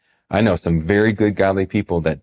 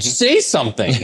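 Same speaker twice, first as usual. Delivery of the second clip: silent plea; 6 semitones higher than usual. Retold or imitated. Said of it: "I'm like".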